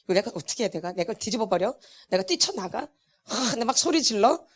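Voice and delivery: hushed inner monologue; acted inner seething. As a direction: mutter it softly, as if thinking to yourself. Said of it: "지금 막 속에서는".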